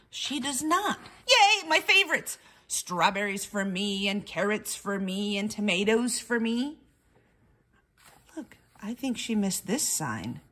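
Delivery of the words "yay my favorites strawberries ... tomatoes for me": excited bird. Acted. Bird finds garden food.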